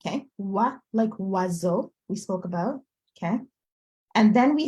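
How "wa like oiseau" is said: wa as in oiseau, said apart; teacher showing the wa sound; demonstrated French sound. Shown as a demonstration. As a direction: model the French "wa", then oiseau slowly. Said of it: "it would be pronounced that wa".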